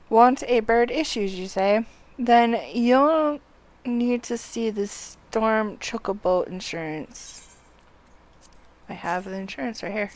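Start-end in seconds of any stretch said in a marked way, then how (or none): 0.1-7.6 louder, lightly formal read-aloud delivery; game dialogue read aloud. Acted. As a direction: read the quest text out clearly.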